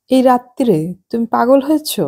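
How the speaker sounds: can't believe he means tonight; shocked wife. Acted. Esha shocked at night drive.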